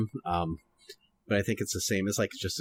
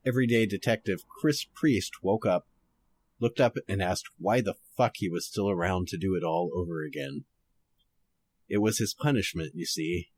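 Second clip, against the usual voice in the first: noir detective. Shown as a demonstration. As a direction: read it like an old detective radio drama. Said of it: "going to try to read this kind of noir-ish".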